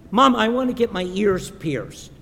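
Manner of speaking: a hint of a six-year-old asking mom; lightly voiced little girl. Six-year-old Olivia asks her mom, lightly voiced little girl. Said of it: "goes to her mom and she says".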